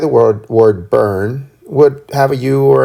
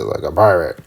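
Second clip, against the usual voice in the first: pirate voice; 7 semitones lower than usual. Retold or imitated. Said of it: "My wife always says".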